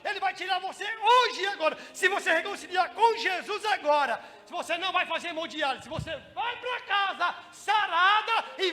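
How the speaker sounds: loud, pressing appeal to repent; urgent pleading. Retold or imitated. Pastor urging the dying woman to accept Jesus, loud and pressing. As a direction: push her to decide now.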